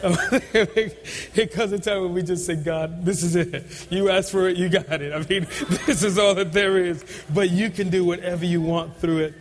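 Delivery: laughing prayer. Real, not acted. Preacher voices a laughing prayer to God. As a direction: laugh through the words of the prayer.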